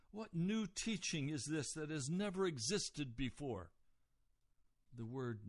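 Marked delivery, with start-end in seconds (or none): 0.1-3.7 higher-pitched astonished question; amazed. Retold or imitated. Onlookers saying to themselves, utterly amazed. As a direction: imitate a crowd marvelling at something new. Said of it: "utterly amazed".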